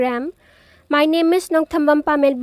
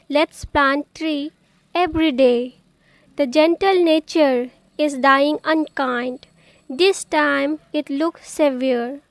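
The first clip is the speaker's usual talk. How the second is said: measured, deliberate poem reading; poem recitation. Acted. Poet reciting her poem on planting trees, measured recitation. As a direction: recite it phrase by phrase, with pauses.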